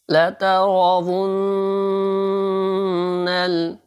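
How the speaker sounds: لترون with quick لا and تا and a heavy را; slow chant, لترون with a thick ra; slow recited لترون; Quran recitation. Shown as a demonstration. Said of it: "را کو موٹا کرنا ہے".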